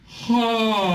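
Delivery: high, open yawn-like ha. Shown as a demonstration. Teacher showing a relaxed yawn, high yawning ha. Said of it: "I'm yawning".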